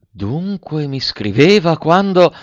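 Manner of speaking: high, slow and scornful, left unfinished; bitter contempt. A narrator's reading. Eugénie, betrayed by her cousin, breaks off in bitter scorn. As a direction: let the contempt hang in the pause. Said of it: "con accento tale che la lasciava intender chiaro".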